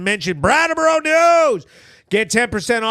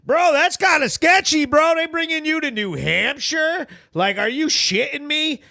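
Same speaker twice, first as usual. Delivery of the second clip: raised, disbelieving bro talk; incredulous bro; 5 semitones higher than usual. Pretend. Reacting to the arrest, mock disbelief. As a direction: act stunned at the news.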